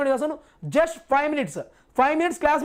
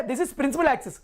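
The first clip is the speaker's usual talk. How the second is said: slow, deliberate; much slower than usual. Shown as a demonstration. Teacher to class, naming the principal axis slowly. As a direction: say it slowly as you point to the diagram. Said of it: "teacher points out the axis".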